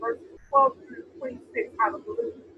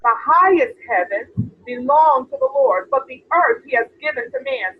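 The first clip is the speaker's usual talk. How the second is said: louder emphatic reread; 5 dB louder than usual. Shown as a demonstration. Pastor rereads the verse to the congregation, louder and emphatic. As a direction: read it again louder and firmer so it lands. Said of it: "The what?".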